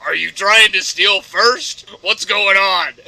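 loud, slow, baffled hero; hammed-up bewildered shout; Batman. Batman misreads the villain's signs, loud confusion. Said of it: "and Batman's like".

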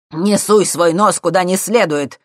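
slow, loud angry bark; barked order. A narrator's reading. Professor barking at the thief, loud and slow. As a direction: bark it at him. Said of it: "рявкнул Курчевский".

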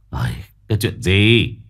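a touch of an impatient snap; irritated snap. Acted. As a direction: brush her off, annoyed. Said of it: "Ông Cửu gắt".

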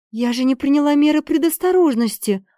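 high-pitched sudden alarm; dismayed gasp. A narrator's reading. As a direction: exclaim as the realization hits. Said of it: "ахнула Марисоль".

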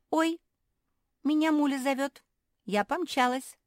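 high, loud, hurried excuse; flustered escape. Acted. Caught pug making excuses to run, flustered. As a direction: dash off flustered.

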